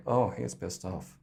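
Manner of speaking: muttered glance-back remark; looking back. Shown as a demonstration. Coach shows how to look back and say it. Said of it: "look back and go like".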